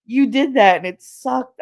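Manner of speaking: high, whiny mock protest; whiny friend. Friend complains the kiss sucked, high mock whine. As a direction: pout through the complaint. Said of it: "She was like".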